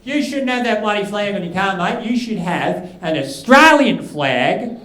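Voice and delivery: bikie rant easing from the high yell. Retold or imitated. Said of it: "I heard a bikie yelling".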